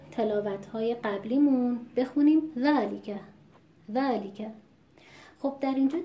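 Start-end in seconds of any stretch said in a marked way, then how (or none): 2.6-3.1 ذالک with the li snatched short after the long ā; ذالک with li swallowed in the shadow of dhā; clipped lām vowel. Shown as a demonstration. 3.9-4.5 ذالک with a hurried, incomplete li; snatch the i after the l in ذالک; ذالک, li tucked under the long ā; clipped lām vowel. Shown as a demonstration.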